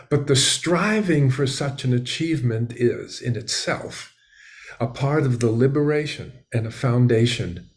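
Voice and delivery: measured, emphatic recitation with weighty pauses; formal quotation reading. Acted. Host reciting an Einstein quote to listeners, measured formal reading. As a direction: read it out as a solemn, deliberate declaration.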